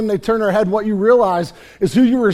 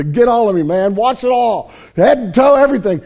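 louder, higher, gushing all in; eager Peter; 4 semitones higher, 6 dB louder than usual. Retold or imitated. Peter begging Jesus to wash him all over, excited. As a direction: blurt it out like an overeager fan. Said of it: "I love Peter's response".

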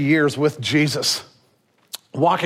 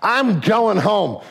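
Daniel confronting Miyagi; 5 semitones higher than usual. Retold or imitated. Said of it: "he kind of confronts him".

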